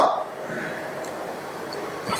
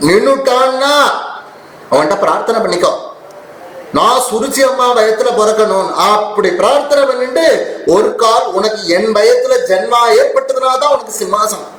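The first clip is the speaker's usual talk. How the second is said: scolding stepmother; 6 semitones higher than usual. Acted. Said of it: "இப்படி திட்டி".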